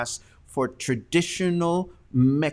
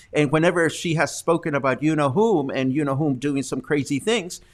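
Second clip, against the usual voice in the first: ordinary delivery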